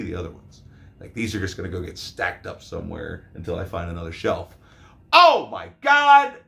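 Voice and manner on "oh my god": high, loud, slow "Oh my God"; stretched-out excited yell; excited shout. Real, not acted. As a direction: gush over the find. Excited over steelbook.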